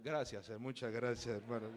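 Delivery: lightly voiced young companion, low; subdued thanks, imitated. The other young man thanks her, mildly subdued low voice.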